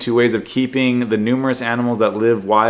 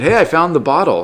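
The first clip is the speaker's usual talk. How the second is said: mock excited finder; 4 semitones higher, 3 dB louder than usual. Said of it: "she's all excited".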